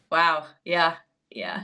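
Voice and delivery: breathy mock-impressed whisper; a dry, mocking whisper; sarcastic whisper. Real, not acted. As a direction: whisper it, unimpressed. Sarcastic aside on "zebra.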